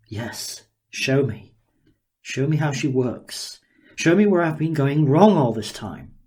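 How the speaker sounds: a hint of a gleeful, curious inventor sizing her up; Daniel, eager scientist. Daniel marvelling at the girl before him, lightly voiced and eager.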